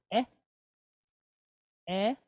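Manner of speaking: eh said short and clipped; quick E sound. Shown as a demonstration. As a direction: model the quick eh. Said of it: "take on a quick E".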